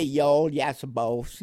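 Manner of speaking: slow, hammed-up Southern drawl on "Y'all, yassa boss"; mock Southern accent. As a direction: mimic a deferential Southern servant, slowly. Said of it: "nothing Southern".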